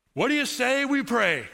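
high, loud call to the room; shouted. Retold or imitated. Tony calls the stunned diner to prayer, loud high shout. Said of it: "he just shouted out".

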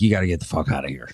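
low, fast, hushed mock throw-out; angry aunt. Aunt kicks the family out, low and fast. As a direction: growl them out the door in a rush. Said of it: "And she's like".

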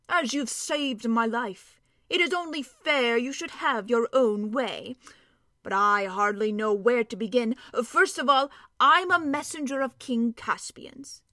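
hearty storybook dwarf, slow and earnest; a lightly voiced dwarf, proud of his news; gruff gravelly dwarf voice. Dwarf explains himself to children.

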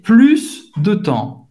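PLUS slowly, with a hissed final S; final S pronounced. Shown as a demonstration. Teacher correcting a forgotten letter, S sounded in PLUS. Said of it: "Você tem que pronunciar o S no final".

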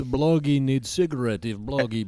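gruff Eastern European puppet; Bloggy voice. Acted. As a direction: demand a cigarette in broken English. Puppet character Bloggy speaks.

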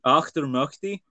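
Auchtermuchty with an American ock-ter-muck-ty; American accent. Shown as a demonstration. Scottish host mimics the guest's American version: Auchtermuchty. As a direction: say Auchtermuchty like an American, flat vowels. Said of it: "say that in an American accent".

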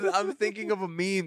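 holding back a laugh; words squeezed past a giggle; stifled giggles. Real, not acted. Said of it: "trying not to laugh".

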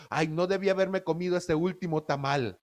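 lightly mocking regretful whine. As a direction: sigh over the last tamal. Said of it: "me suena ridículo". (queja burlona de arrepentimiento)

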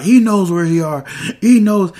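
high, loud, mock-heated accusation; agitated insistence. Acts out John Walker insisting angrily.

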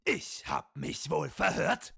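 very high, barked drill-sergeant orders; stiff barking toy soldier. Acted. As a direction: bark it like a tiny wind-up sergeant. Comic drill skit, sergeant. (hoher, zackiger Spielzeugsoldaten-Befehlston)

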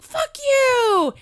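high, loud, drawn-out mock kid scream; Odie. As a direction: imitate a furious child screeching at siblings. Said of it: "then Odie is like".

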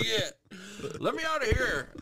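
lightly voiced baby begging to get out; baby's voice. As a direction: squeak it like a stuck baby. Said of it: "I was just dangling, bro, like".

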